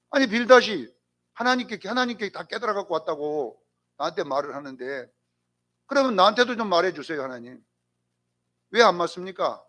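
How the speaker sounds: mildly indignant retold complaint; arguing with God. Job asks God to answer him too, argumentative. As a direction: open strongly, then reason it out in protest. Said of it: "이걸 이제 따지는 거예요".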